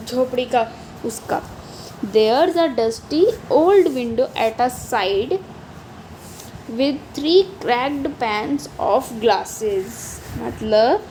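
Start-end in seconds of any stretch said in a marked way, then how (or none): 2.1-10.2 put-on very slow, each word laid out for children; slow poem recital. Teacher reading a poem line slowly to her class. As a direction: read the verse slowly, word by word.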